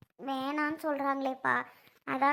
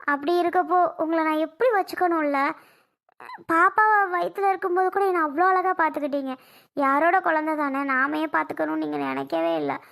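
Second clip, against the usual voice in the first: crying again; 4 dB louder than usual. Acted. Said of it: "இப்ப திருப்பியும் அலற".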